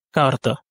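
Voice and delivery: carta in Russian, stress on the first A; Russian pronunciation. Shown as a demonstration. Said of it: "L'accent tonique est sur le A".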